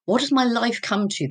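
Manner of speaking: fighting back tears as the memory returns; real emotion breaking through. Real, not acted. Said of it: "I'm getting quite emotional now".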